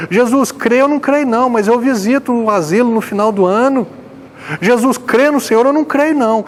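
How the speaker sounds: high, pleading mock prayer of a churchgoer who boasts of good deeds; mock self-righteous prayer. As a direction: imitate a believer bargaining with Jesus. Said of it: "Ele não falou assim". (oração fingida, aguda e suplicante, zombando do crente)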